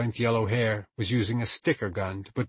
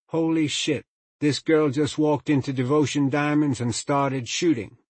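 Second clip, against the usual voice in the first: alarmed; 5 semitones higher, 5 dB louder than usual. A narrator's reading. Frantic text read aloud.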